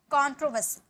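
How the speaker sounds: कंट्रोवर्सी as "kon-tro-vuh-si"; silent r. Shown as a demonstration. Teacher models the word for learners, r silent. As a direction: say कंट्रोवर्सी with no r before the s. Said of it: "यहाँ आर silent है".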